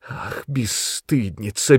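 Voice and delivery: slow, drawn-out rising reproach. A narrator's reading. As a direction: let the insult linger. Mother berates daughter.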